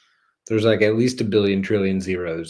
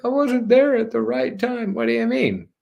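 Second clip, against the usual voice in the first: much higher, whiny imitation; high whiny mock; 3 dB louder than usual. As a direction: mimic a listener's excuse. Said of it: "you're like".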